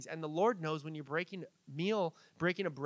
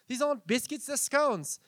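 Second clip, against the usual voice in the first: put-on British accent, higher pitched; bad British accent; 6 semitones higher than usual. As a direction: badly imitate a British kid. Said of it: "that was a really bad accent".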